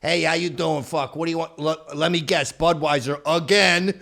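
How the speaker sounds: put-on old bartender's New York accent. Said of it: "some old Chinese guy ... going".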